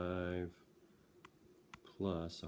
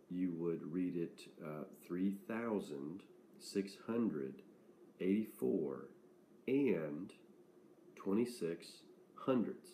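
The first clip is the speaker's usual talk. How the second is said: slow reading with and stressed; slower than usual. Shown as a demonstration. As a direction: lean on the word "and" in "eighty-four and twenty-six hundredths". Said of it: "and I emphasize that word and".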